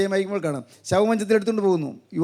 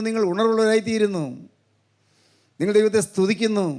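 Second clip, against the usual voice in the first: sustained, declamatory sermon delivery; preacher's level, insistent intonation; preaching. Acted. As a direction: proclaim it steadily to the congregation.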